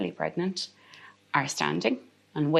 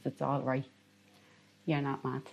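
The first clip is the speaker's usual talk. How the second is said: quiet, reassuring tone; soft reassurance; 3 semitones lower, 10 dB quieter than usual. Retold or imitated. Midwife reassures a grieving mother, softly. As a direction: gently reassure her. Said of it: "she says to me".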